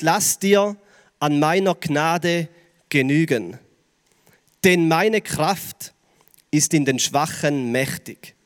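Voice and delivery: langsam, mit langen Pausen und sanft fallend; feierlich zitiert. Retold or imitated. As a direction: jedes Wort des Verses bedächtig setzen. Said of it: "er sagt". (wie Jesus selbst, ruhig und tröstend)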